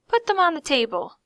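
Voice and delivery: ordering. A narrator's reading. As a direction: order it briskly. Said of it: "she ordered without".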